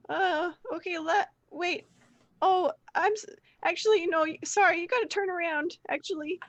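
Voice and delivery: put-on high, squeaky, dithering boy voice; flustered young guide. Roger sending the party back, flustered high voice. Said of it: "Roger kinda continues on this course of action".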